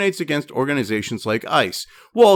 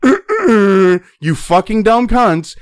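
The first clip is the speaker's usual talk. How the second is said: contemptuous insult; 4 semitones higher, 4 dB louder, much slower than usual. Real, not acted. Insulting illegal immigration defenders.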